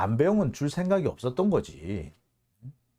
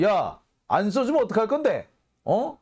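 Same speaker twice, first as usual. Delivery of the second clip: mock yelling; 5 semitones higher than usual. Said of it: "큰 소리를 빠락빠락 질러요".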